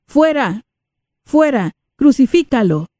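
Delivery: high, sharp mob cry; crowd shouting. Acted. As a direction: hurl the words like a furious crowd. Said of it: "Ellos gritaron".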